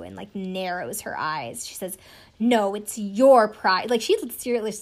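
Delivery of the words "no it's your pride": slow, louder, each word leaned on; "No, it's your pride" laid down like a verdict; mock dramatic accusation. Contestant's staged line to her fiancé, mock dramatic and slow. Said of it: "it's like she's performing this moment".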